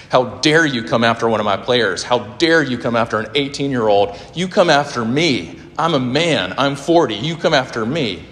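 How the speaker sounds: imitating a coach telling off the press; retold yelling. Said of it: "he starts yelling at this press".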